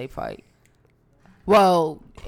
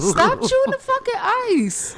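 annoyed yell. Real, not acted. Annoyed at someone chewing ice.

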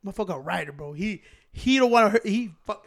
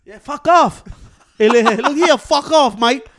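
mock brush-off; 3 semitones higher, 8 dB louder, slower than usual. Telling kid off.

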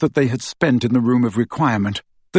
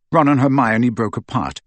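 ordinary delivery

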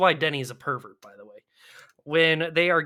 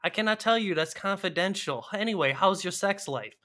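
lightly higher, flat quoting of the lines; mock stilted movie dialogue; 4 semitones higher than usual. Podcaster acting out the coffee shop scene, mock stilted. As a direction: read it like a stiff bad script. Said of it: "exactly how that scene plays out".

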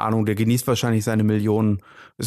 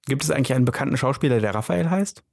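rushed repeat for clarity; faster repeat. Real, not acted.

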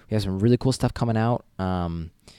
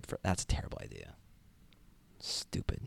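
muttered aside; 12 dB quieter than usual. Real, not acted. Muttering self-criticism.

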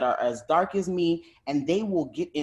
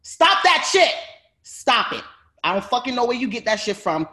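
retold angry retort. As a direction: snap back at her, then blow up. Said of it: "I was like".

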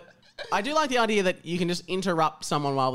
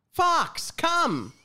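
heroic command; 10 semitones higher than usual. Acted. Harry summoning the phoenix.

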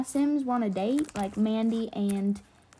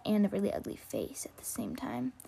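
whispering; 8 dB quieter than usual. Real, not acted. Whispered insult.

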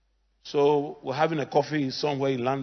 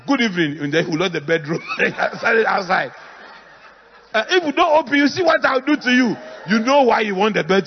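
shouting wife; 6 semitones higher, 9 dB louder than usual. Pretend. Wife shouting at locked-out husband.

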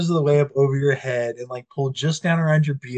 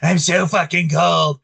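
imitated freezing complaint; 2 semitones higher than usual. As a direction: drag out a friend's complaint of being cold. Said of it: "I'm fucking freezing".

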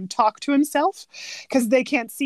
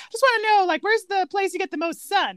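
bright high mock emperor chatter; Kuzco voice; 7 semitones higher, 4 dB louder than usual. Friend retelling the movie, quoting Kuzco high and chirpy. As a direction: rattle it off like a self-absorbed emperor. Kuzco quoted, excited and fast.

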